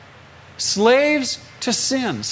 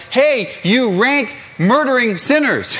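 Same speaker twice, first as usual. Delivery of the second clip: hammed-up accusing call, drawn out; mock yell; 3 semitones higher, slower than usual. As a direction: call out a slow, mock condemnation across a parking lot. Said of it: "I don't wanna have to yell".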